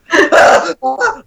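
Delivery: imitated yell. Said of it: "yelling the loudest I've ever yelled".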